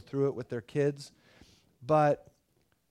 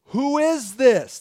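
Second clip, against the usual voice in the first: much higher and louder, slow amazement; awestruck disciples; 9 semitones higher, 9 dB louder, slower than usual. Retold or imitated. Stunned disciples after the wind dies, amazed outcry. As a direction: gasp it out in disbelief.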